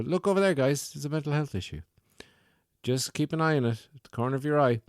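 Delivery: high, sing-song mock of a wellness speaker; lightly hammed-up guru voice; mock mindfulness speaker.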